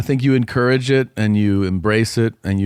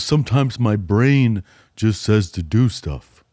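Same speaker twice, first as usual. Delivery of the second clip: put-on innocent kid; slower than usual. Kid explaining himself.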